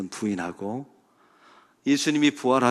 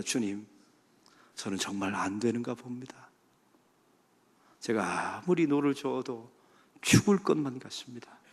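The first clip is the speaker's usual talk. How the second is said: despairing prayer. Acted.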